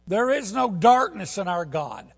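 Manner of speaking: loud, high, slowed proclaiming; loud, ringing pulpit voice; full-force preaching. Acted. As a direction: preach it to the rafters.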